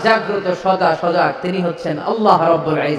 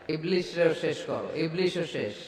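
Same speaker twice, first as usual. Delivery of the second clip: much softer near-whispered telling; hushed telling; 2 semitones lower, 13 dB quieter than usual. A narrator's reading. Preacher hushing as only the angel of death remains, near-whisper. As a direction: drop the voice to a hush.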